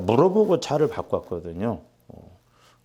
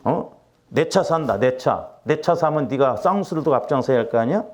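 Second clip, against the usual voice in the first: forceful rebuke. Retold or imitated. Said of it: "얼마나 강력하게 기도가 나오는데".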